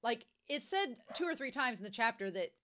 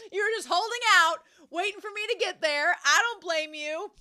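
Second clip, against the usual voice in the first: playful teasing; 8 semitones higher, 10 dB louder than usual. Real, not acted. Teasing viewers, loud.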